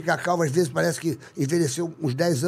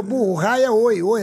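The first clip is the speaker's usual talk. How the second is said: mock scolding; 5 semitones higher, 7 dB louder, slower than usual. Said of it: "O cara falou assim".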